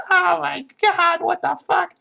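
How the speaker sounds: comic scream of horror, way up high; imitated screaming freak-out. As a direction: shriek it as a hammed-up panic. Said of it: "starts screaming and freaking out".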